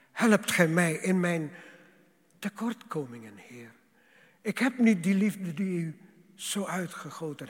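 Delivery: impassioned pulpit prayer; fervent prayer. Acted. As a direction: plead with the Lord from the heart. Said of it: "Dat wij kunnen zeggen".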